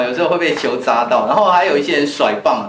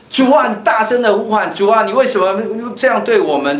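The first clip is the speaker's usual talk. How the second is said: higher, lamenting cry to the Lord; 6 semitones higher than usual. Retold or imitated. People cry out to God at night, lamenting. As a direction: raise the voice in lament. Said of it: "你要起来呼喊".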